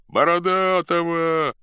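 high, long-drawn loud cry; rival shout. A narrator's reading. Rival faction still backs its man, shouting. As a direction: call the name across the square.

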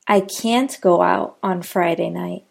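"can't" given the weight; stressed can't. Shown as a demonstration. Teacher repeating the can't sentence, "can't" stressed. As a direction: lean on "can't". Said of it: "The word can't is always stressed".

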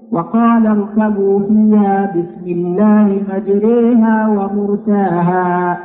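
slow recitation with مجريها leaned toward ya; Quran recitation. Shown as a demonstration. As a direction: recite slowly, leaning the vowel of مجريها.

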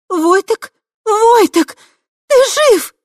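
very high, loud cries of joy; joyful disbelief. A narrator's reading. Tai finding Voytek alive, crying out in joy. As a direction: call out to him, overjoyed. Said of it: "изумления, недоверия и счастья".

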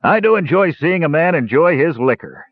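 put-on a toast from an old dwarf, said with weight; a hint of a serious dwarf host. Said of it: "said Dugan seriously".

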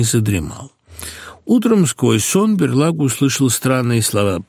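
ordinary delivery, nothing marked

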